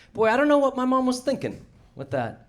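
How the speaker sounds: high, put-on voice of Brad; mock Brad voice. Comedian parodies the opener's joke, high put-on voice. Mocking Brad's joke onstage.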